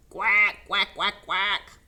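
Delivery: loud duck quacking; loud quacks. Shown as a demonstration. Reader leading children in loud quacks. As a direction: quack loudly along with listeners. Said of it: "Let's say it with me".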